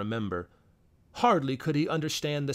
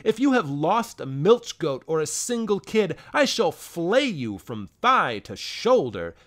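angry scolding; 3 dB louder than usual. Acted. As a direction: berate him word by word. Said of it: "cried Pornos".

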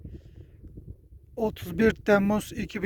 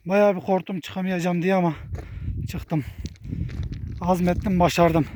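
out of breath. Real, not acted. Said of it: "Halen soluk soluğa kaldım".

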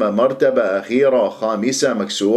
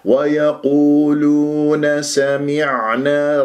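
slow, melodic recitation; measured tajweed recitation; Quran recitation; much slower than usual. Shown as a demonstration. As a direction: chant ويقولون سمعنا slowly. Recites the verse.

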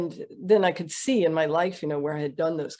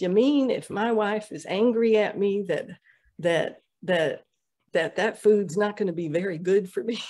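lightly imitated Southern accent, a touch higher; 3 semitones higher than usual. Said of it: "who had a very Southern accent".

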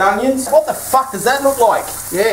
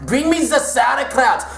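mock German officer; 4 semitones higher than usual. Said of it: "German war camp interrogation".

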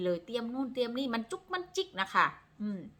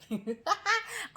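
high laugh; 13 semitones higher than usual. Real, not acted. Laughing at the camera.

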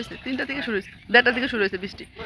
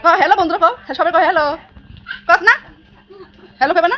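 high, loud playful urging; 7 semitones higher, 9 dB louder, faster than usual. Real, not acted. Urging child to greet viewers. (বাচ্চাকে hello বলাতে উঁচু গলায় তাড়া)

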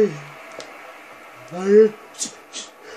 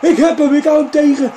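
raised, loud triumphant shout; excited boast; 5 semitones higher, 6 dB louder than usual. Real, not acted. Gamer boasts about stopping a penalty, excited shout. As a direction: crow about the save at higher pitch.

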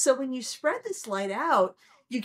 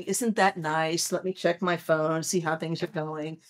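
bored indifference; 5 semitones lower than usual. Retold or imitated. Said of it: "we'll all be sitting there going".

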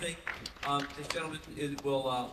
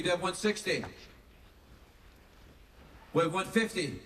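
raised-pitch auctioneer's bid calling; 6 semitones higher, 4 dB louder than usual. Real, not acted. Actor auctions signed items to fans, auctioneer call. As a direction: call the bids out over the room. Calls bids at a fan auction.

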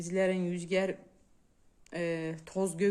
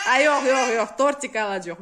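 mother loudly reassuring her crying daughter; loud reassurance; 3 semitones higher, 9 dB louder than usual. Real, not acted. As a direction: call it out over her crying.

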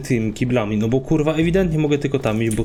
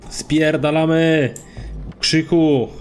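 tag; 3 semitones higher, much slower than usual. Real, not acted. Yells while fleeing the pursuer.

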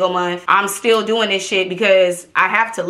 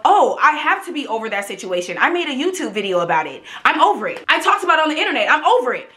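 delusional self-talk; 2 semitones higher, faster than usual. Retold or imitated. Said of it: "I think to myself".

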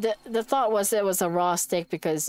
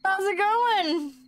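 much higher, louder eerie sing-song greeting; creepy sister voice; 12 semitones higher, 3 dB louder, much slower than usual. Acted. Sister greeting Mari in an eerie higher voice. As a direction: greet her like an uncanny doll.

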